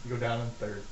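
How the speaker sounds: hushed conspiratorial aside; whispering. Acted. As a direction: whisper it behind your hand. DM whispers fight-fixing aside.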